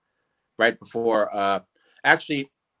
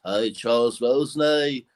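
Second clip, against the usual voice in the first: cartoon impression of a rock guitarist; slower than usual. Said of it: "Lead guitar here".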